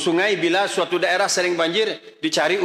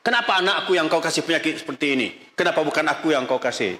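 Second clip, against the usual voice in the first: half-laughing mock complaint. Shown as a demonstration. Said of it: "Saya contohkan bahasan".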